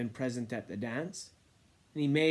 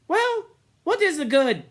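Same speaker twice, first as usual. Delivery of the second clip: sullen despair; 11 dB louder than usual. A narrator's reading. Sam despairs too.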